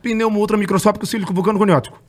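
rattled off in one breath; all in one breath. Shown as a demonstration. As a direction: say it without pausing to breathe. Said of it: "você fala sem respirar".

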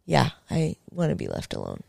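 soft, restrained polite reply; subdued, courteous brush-off; polite refusal. Retold or imitated. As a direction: retell it quietly, keeping it civil. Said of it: "I politely said".

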